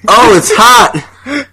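high, very drawn-out mock wail; imitated yelling. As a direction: howl it in comic agony. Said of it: "he's yelling this".

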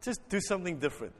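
soft, quick coaxing; quiet prompt. Real, not acted. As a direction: ask it softly and quickly. First, low take of the request.

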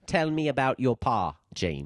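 lightly put-on British producer accent; coaxing British TV producer. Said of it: "the British producer in the background".

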